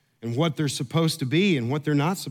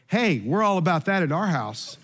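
light mock of wife, laughing; husband voicing his wife's bold remark, laughing; wife's quip. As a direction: play the wife blurting it out cheerfully. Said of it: "modest wife go".

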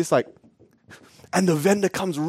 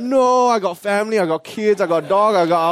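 excuse-making vendor; 3 semitones higher than usual. Retold or imitated. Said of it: "it's same thing, right?".

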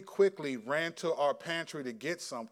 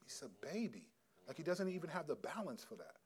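mild inner exasperation; 11 dB quieter than usual. Retold or imitated. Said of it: "I was like".

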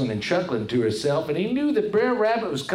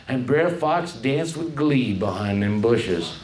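usual speaking voice

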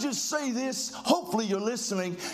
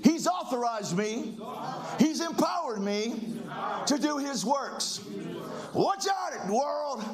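pumped-up declaration. Shown as a demonstration. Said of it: "I'm trying to get you excited".

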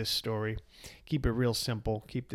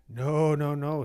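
firm, louder refusal; 4 semitones higher, 8 dB louder, slower than usual. Acted. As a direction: shut it down firmly. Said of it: "said the sage firmly".

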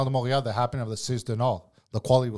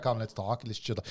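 soft, low-key invitation; chill senior boss; 3 semitones lower, 7 dB quieter than usual. Retold or imitated. Boss's boss calls the cook over to talk, soft and chill. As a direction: imitate an easygoing old cook, quietly.

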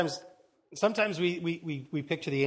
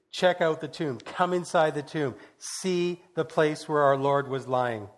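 excited angel; 3 dB louder than usual. Acted. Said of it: "he was excited".

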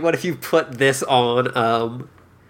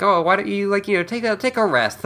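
higher, lilting casual suggestion; imitated breezy suggestion; 7 semitones higher, faster than usual. Someone casually suggesting a walk as the door opens, mock breezy. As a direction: toss out a friendly idea in a raised pitch.

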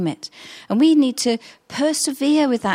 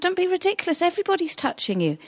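scoffing disciples; 8 semitones higher, 3 dB quieter, faster than usual. Retold or imitated.

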